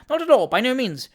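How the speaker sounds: high, loud brazen interruption; unabashed. A narrator's reading. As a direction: cut in without any shame. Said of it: "replied the unabashed Mister Jingle".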